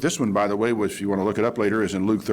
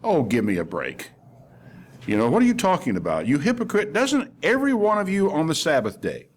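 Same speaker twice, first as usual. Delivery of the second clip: imitated exasperated comeback, rising in pitch; mock indignation, building higher; colloquial retort; 5 semitones higher than usual. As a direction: retort in everyday street talk. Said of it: "probably in the vernacular of their day".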